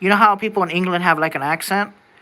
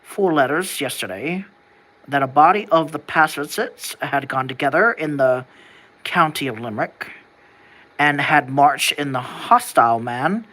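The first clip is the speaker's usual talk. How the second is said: put-on lower-pitched old-time newspaper reader; alternative colonial voice; 3 semitones lower than usual. Shown as a demonstration. Trying another guess at colonial speech, lower reading voice. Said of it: "Or would I just be speaking like this?".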